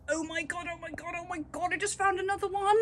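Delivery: hushed, breathless oh my god; quiet amazed gasping; shrieking jackpot winner. Real, not acted. Finds another kitten.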